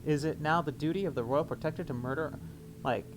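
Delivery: formal newspaper reading voice; news read. Acted. Reads in-game newspaper aloud.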